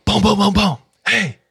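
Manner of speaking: high, loud knocks then a sharp hey; banging and calling out. Retold or imitated. Relative banging on the thief's car window, loud high call. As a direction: pound the window and call him out.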